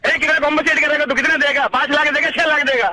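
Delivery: real fury, demanding answers; angry customer yelling over the phone; indignant anger. Real, not acted. Prank victim furious at mechanic.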